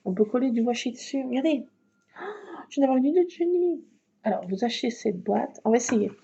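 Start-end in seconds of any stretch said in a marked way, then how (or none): 2.2-3.8 high, fast and bright with excitement; excited idea. Real, not acted. To viewers, thrilled by her genius idea. Sudden craft idea again.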